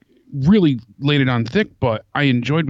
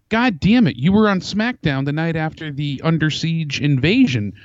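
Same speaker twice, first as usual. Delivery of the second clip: exasperated outburst; 3 semitones higher than usual. Retold or imitated. Co-host retelling his reaction to the commentator's remark, exasperated. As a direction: retell your indignant reaction, incredulous.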